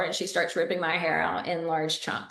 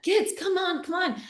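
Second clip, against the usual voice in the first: put-on higher, hurried call to the kids; urgent call; 10 semitones higher than usual. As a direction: rush the children out the door. Hurrying kids out of the house.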